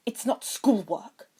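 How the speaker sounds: slow whispered denial; hasty whisper. A narrator's reading. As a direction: brush it off under your breath. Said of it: "Draco said hastily".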